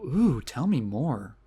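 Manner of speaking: slow, soft, mock-impressed French-tinged American accent; drawn-out and slow, like a Frenchwoman faking an American accent; French actress's American accent. Reviewer imitating a French actress's American accent, slow and mock-impressed. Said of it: "a French person doing an American accent".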